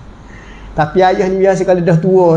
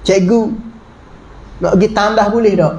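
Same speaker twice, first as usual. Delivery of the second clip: polite pupil asking permission, gently; gentle polite request; 2 semitones lower than usual. Shown as a demonstration. Pupil asking the teacher to go to the toilet, gentle and polite. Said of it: "intonasi dia lembut".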